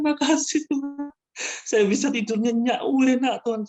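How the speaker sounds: high, wailing thanks in imitation of crying; tearful thanks. Thanking God after finally sleeping soundly, imitated high tearful cry. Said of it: "saya nangis sama Tuhan".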